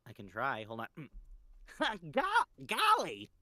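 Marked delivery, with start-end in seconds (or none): 2.1-3.3 high, loud character voice; Test Tube voice. Acted. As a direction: pitch way up, eager and loud. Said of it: "can Jazzy do a test tube impression".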